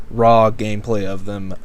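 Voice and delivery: ordinary talk, nothing marked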